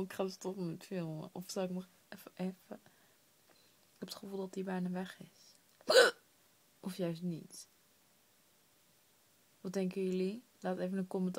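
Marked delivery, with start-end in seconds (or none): 2.8-5.6 slow hopeful whisper. Real, not acted. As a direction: whisper it carefully.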